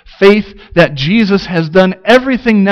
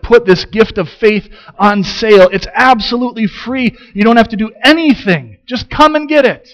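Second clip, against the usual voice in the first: rising appeal; 5 semitones higher than usual. Real, not acted. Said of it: "rising preaching appeal".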